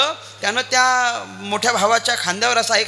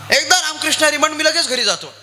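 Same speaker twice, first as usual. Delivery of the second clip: insistent call; 5 semitones higher than usual. Retold or imitated. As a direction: call out the demand with force. Saint insists, repeats louder. (ठामपणे मोठ्याने आग्रह)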